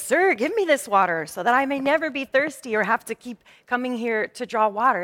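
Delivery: lightly teasing, half-mocking request; a hint of playful mockery. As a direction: tease him a little as you ask. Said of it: "this teasing tone in her voice".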